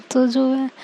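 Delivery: ordinary delivery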